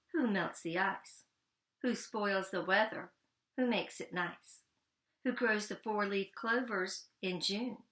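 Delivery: measured stage recitation; poem recital. Acted. Frederick recites his poem to the mice as if on stage.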